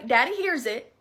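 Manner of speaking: a Southern twang slipping out; unplanned Southern accent; slipped Southern accent. Real, not acted. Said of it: "that was so Southern".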